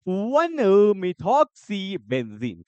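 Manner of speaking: methoxy benzene drawn out very slowly; teacher stretching each sound; slow dictation. Shown as a demonstration. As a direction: spell the name out syllable by syllable for notes. Dictating a name to the class.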